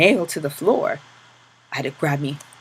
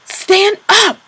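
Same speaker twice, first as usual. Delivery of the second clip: even louder, high yell; 11 dB louder than usual. Acted. Capo yelling again at the prisoner, louder. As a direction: yell it harder than before. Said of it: "yelling even more loudly".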